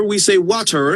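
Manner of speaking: WATER carefully articulated with a clear T; mock-proper WATER, T crossed precisely; over-enunciated T. Shown as a demonstration. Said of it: "we finish our sentences".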